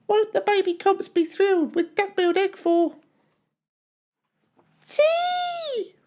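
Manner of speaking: small thief delighted with her egg; little Comp voice. A narrator's reading. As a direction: gloat in a tiny high voice.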